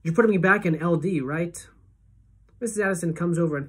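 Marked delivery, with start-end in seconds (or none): 0.1-1.7 blurted. Acted. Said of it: "it makes me blurt out".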